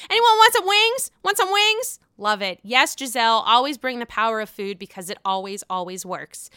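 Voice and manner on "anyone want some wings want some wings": high, loud bright offer of wings; playful mock party host; chirpy hostess offer. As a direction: sing it out like a hostess changing the subject. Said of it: "she likes to change her stuff".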